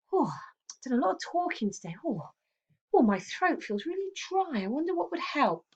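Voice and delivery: high, half-whispered hinting sighs; hinting politely. Shown as a demonstration. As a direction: drop a hint for tea, high and breathy. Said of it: "they might say".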